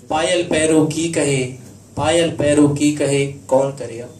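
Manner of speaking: rhythmic doha delivery, words drawn out; measured poetic lilt with lingering phrase ends; couplet recitation. Acted.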